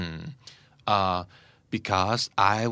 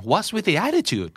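high, slow irritated what's with the attitude; irritated challenge; 8 semitones higher, much slower than usual. Shown as a demonstration. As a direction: push back at the friend's tone, irritated. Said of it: "น้ำเสียงทำไมต้องขนาดนั้นเนี่ย".

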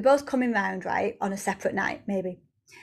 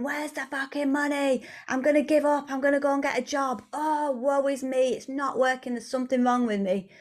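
higher-pitched mock whining; annoyed and frustrated; 4 semitones higher than usual. Frustrated woman moaning about money, annoyed whine. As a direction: play a self-pitying moaner, easing down at the end. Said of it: "really annoyed and frustrated".

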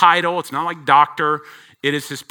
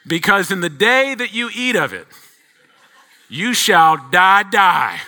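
laughing through a hammed-up "die, die"; mock solemn warning; 5 semitones higher, 5 dB louder than usual. Dad jokingly warning daughters off dishwasher pods, laughing. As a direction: play the dire warning as a joke.

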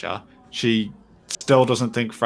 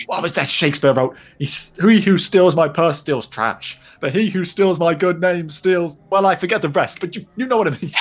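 higher, loud gravelly mock drawl; imitating Frasier's drawl; 6 semitones higher, 5 dB louder than usual. Co-host imitating Frasier quoting Shakespeare, gravelly mock drawl. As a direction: do Frasier's fed-up gravelly drawl, hammed up a bit. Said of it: "he's got that drawl, and his voice goes so gravelly".

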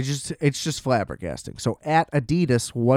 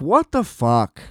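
incredulous reaction; slower than usual. Retold or imitated. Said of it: "And I'm like".

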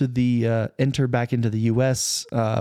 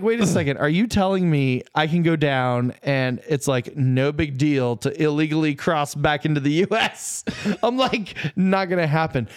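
mock disbelief; 4 semitones higher than usual. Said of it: "And so I'm like".

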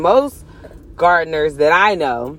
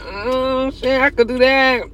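past excited self; 6 semitones higher, slower than usual. Retold or imitated. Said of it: "I used to be like".

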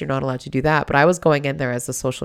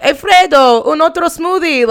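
much higher and louder, calling to bartender; bossy order; 12 semitones higher, 9 dB louder than usual. Retold or imitated. Manager ordering another smoothie, high call-out. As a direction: call out your order grandly. Friend Jenny ordering at bar.

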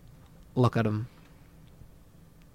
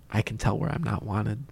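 quiet resignation; 2 semitones lower, 9 dB quieter than usual. Acted. Josh, rejected, quietly gives up.

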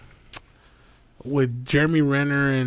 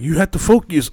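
Korean teacher voice; 3 semitones higher than usual. Retold or imitated. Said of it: "she'd be like".

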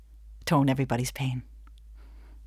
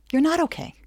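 knowing concerned friend; 10 semitones higher than usual. Retold or imitated. Empathic friend sees through.

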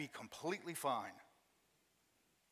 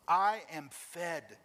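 louder, very slow I am fed; Jesus insisting to the disciples, louder, that he is fed; building to loud; 4 dB louder, much slower than usual. Retold or imitated. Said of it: "here's what he says to them".

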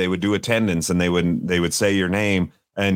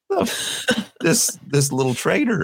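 mock outraged kid; 10 semitones higher than usual. Kid mocking classmate as traitor.

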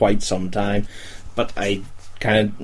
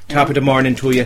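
a quick hammed-up Irish accent, a touch higher and louder; mock Irish accent; 4 semitones higher, 4 dB louder, faster than usual. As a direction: toss off a jokey Irish greeting in an Irish accent. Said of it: "I don't know why I went all Irish".

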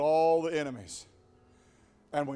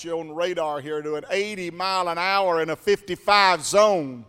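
stern trooper; 6 dB louder than usual. Acted. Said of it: "with a deep voice".

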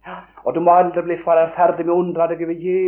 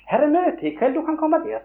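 high eager reply; 9 semitones higher than usual. Retold or imitated. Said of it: "sa hun".

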